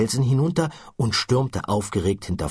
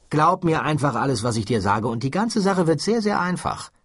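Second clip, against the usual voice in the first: a lightly voiced Ford, higher and pressing; Ford, urgent and insistent; 8 semitones higher than usual. Ford urging Arthur to believe him, pressing.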